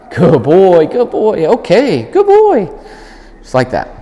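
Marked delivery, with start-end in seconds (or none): 0.1-2.7 high, loud happy praise; excited praise. Real, not acted. Trainer praising the dog on arrival, high and excited. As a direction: reward him with your voice.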